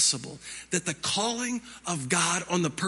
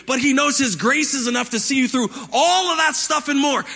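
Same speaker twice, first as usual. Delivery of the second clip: quick, driving sermon delivery; impassioned preaching; 5 semitones higher, 5 dB louder than usual. Acted. Pastor preaching that grace is sufficient, impassioned preaching. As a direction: press the point home to the congregation.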